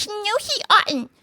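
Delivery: high, slow protest in Mole's voice; lightly voiced Mole objecting; mild mock shout. Mole contradicting Rat, high protest. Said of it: "shouted the mole with his mouth full".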